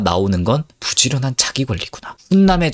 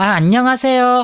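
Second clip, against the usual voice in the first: very high, raised voice hiked way up; 11 semitones higher than usual. Imitating a woman greeting a man she likes, raised high-pitched voice. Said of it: "여자는 원래 이런 목소리 내나? ... 목소리 톤 겁나 올리는".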